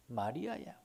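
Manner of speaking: quiet, tender "마리아야"; soft call. Acted. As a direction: drop to a gentle call. Soft call inside loud refrain. (부드럽게 부르듯)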